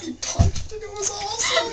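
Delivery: high and loud; excited. Real, not acted. Friends gushing about the rock punch, high and loud. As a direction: gush about it.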